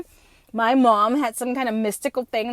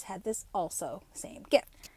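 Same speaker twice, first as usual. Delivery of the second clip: softer, slower, a secret hushed; whisper; 5 semitones lower, 10 dB quieter than usual. Real, not acted. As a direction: tell it like a secret. Secret gift revealed, whispered.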